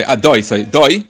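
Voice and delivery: adoi with a clear "oy" in doi; choilem on dalad. Shown as a demonstration. Teacher demonstrates dalad with choilem, "doi" as "oy". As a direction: sound doi with a full "oy". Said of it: "the dalad should be pronounced with a choilem".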